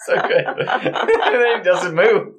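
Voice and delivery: talking through real laughter, slowed; can't get the words out for laughing. Real, not acted. Laughing at the funny scene.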